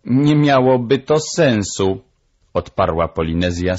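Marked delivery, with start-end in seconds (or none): 0.0-2.0 high parrot character voice; raised, emphatic bird voice; matter-of-fact parrot. Acted. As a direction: answer firmly as the bird. Parrot answers the doctor.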